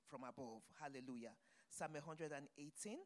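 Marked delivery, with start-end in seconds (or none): none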